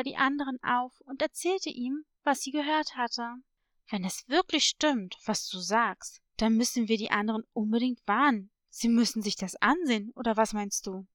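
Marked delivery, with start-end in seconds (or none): 3.9-11.1 a lower voice for the younger brother; lightly voiced hippo brother. Hippo brother urging his sister to warn the others, lightly voiced, concerned. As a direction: drop the pitch a little, concerned.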